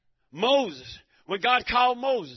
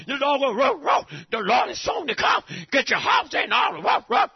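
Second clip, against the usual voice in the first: mock roar; 4 semitones higher, 5 dB louder than usual. Voicing dog roaring warning.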